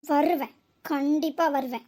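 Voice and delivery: slow, low promise to return; ominous vow. Acted. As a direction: draw it out as a warning. Warns she will return. (மெதுவாக, அழுத்தி எச்சரிப்பது)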